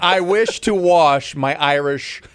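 slow careful tongue twister, halting before wristwatch; slow with a pause. Shown as a demonstration. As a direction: creep through it, stall before the last word. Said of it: "You can't pause in there".

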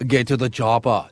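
put-on movie-line Arnie accent. Co-host showing how to speak like Arnie, imitated accent. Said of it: "Can you speak like Arnie?".

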